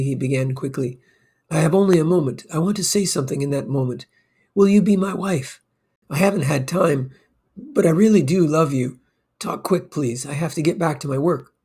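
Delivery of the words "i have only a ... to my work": higher, fast, eager rush of words; hurried excited proposal. Acted. Broker proposing to his secretary in a rush, hurried and eager. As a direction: blurt out a proposal with no time to spare. Rushed proposal between business calls.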